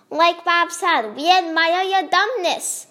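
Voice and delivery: mock admiration in a put-on accent; sarcastic. A narrator's reading. Joe mocks the newcomer with slow sarcasm. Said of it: "sounding sarcastic".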